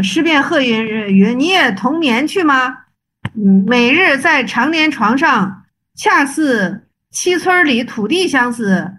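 slow, measured reading aloud; classical text recitation. Acted. Teacher reading the Zen story of 岩头 and 雪峰, measured recitation. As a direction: read each phrase out deliberately, drawing out the words.

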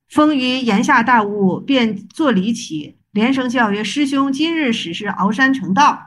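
slow, measured reading aloud; classical text recitation. Acted. Teacher reading the Zen story of 岩头 and 雪峰, measured recitation. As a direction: read each phrase out deliberately, drawing out the words.

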